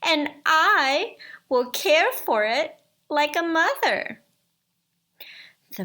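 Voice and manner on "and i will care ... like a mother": high, loud enchantress voice; witch voice. Acted. Enchantress striking a bargain with the man, witchy voice.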